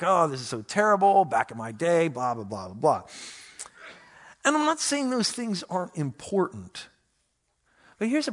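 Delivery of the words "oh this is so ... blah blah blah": downer. Retold or imitated. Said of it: "be on all a downer".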